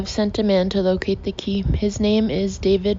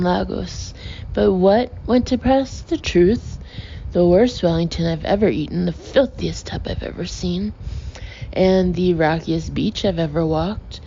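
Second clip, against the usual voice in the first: proud, carrying voice, rising to a loud outburst; mock-outraged food critic holding forth; loud indignant rant. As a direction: lecture him loudly like an offended critic. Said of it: "his voice echoed through the gymnasium".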